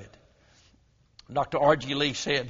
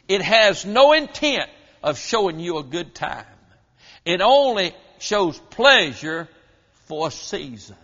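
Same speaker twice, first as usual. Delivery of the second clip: loud, weighty pulpit emphasis; forceful preaching; 6 dB louder than usual. Real, not acted. Preacher warns listeners about sin's false pleasure, forceful. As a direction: drive the warning home with force. Preacher drives the warning home.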